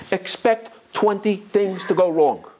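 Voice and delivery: slow advice. Retold or imitated. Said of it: "The person said".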